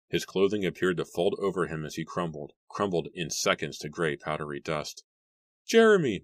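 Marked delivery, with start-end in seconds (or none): 5.6-6.2 high, loud panicked shriek; piercing frantic call. A narrator's reading. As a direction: shriek the name in terror. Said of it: "Mary shrieked".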